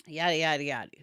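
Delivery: dismissive whisper. Real, not acted. Brushing off the quoted argument.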